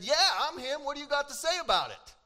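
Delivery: mock boast. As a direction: swagger it like a show-off. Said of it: "He could have said any list".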